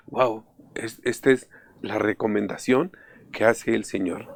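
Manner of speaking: a soft, breathy near whisper of wonder; hushed awe. Retold or imitated. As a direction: murmur it as if to yourself, amazed. Retold awed inner remark.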